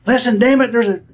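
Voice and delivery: high, loud blustering delivery man; gruff delivery guy character. Retold or imitated. Barging into the casting director's office as a ranting delivery man. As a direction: bluster about a mystery shipment. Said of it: "doing this character".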